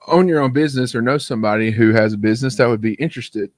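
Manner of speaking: talking through hiccups; hiccuping. Real, not acted. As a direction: hiccups breaking up the words. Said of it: "as I go through my hiccups".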